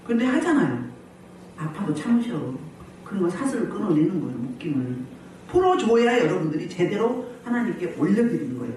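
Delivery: ordinary talk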